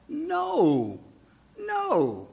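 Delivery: high, loud, emphatic no. Retold or imitated. Jesus emphatically refusing the crowd's idea, loud and high. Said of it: "It's like".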